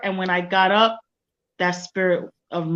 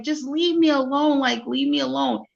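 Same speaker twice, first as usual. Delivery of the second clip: higher-pitched, mildly frantic retelling; retold hysterical plea; 5 semitones higher than usual. Recounting her plea to the neighbor, mildly hysterical. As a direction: mildly imitate a hysterical brush-off. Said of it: "So I started getting hysterical".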